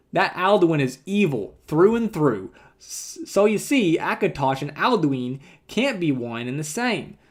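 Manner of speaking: put-on a country storyteller with a hick accent; folksy hick accent read. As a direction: spin the yarn like a backwoods Nord, hick accent. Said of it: "This kinda works with my accent".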